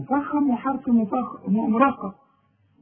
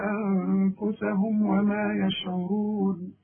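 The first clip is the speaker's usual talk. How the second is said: slow, steady tajweed chant; Quran recitation; slower than usual. Acted. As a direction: recite slowly and evenly. (ترتيل القرآن ببطء)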